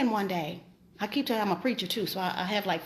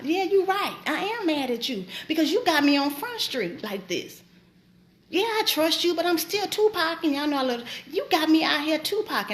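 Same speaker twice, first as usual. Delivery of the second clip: mildly angry protest to God, pitched up; retold mad complaint; 3 semitones higher than usual. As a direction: re-enact arguing with God, a touch heated. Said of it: "that I was mad".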